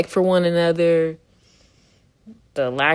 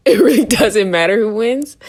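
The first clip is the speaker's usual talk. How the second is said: mock outburst; 4 semitones higher, 8 dB louder than usual. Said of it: "slightly made me go".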